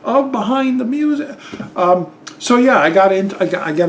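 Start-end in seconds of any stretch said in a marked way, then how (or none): 0.0-1.4 slow realization. Retold or imitated. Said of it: "And then I was".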